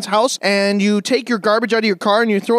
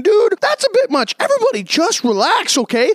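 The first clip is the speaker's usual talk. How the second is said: mock voice of reason; 7 semitones higher than usual. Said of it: "being the voice of reason saying".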